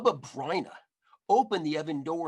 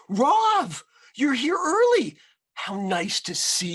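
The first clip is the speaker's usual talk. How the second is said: higher, louder delighted granny welcome; old woman greeting; 10 semitones higher, 7 dB louder than usual. A narrator's reading. Grandmother welcoming the Rav at her door, delighted. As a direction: greet the early guest with delight. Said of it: "opened it".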